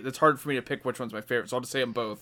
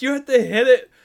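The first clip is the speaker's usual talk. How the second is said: higher, louder urgent order; imitating the girlfriend; 10 semitones higher, 8 dB louder than usual. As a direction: push him to do it. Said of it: "she's like".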